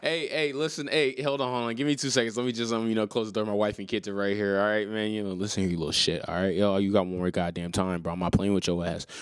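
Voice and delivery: lightly played pushy trade caller; bully him over the phone, half joking; a hint of a shady exec. Fake team exec hissing threats on a pretend trade call.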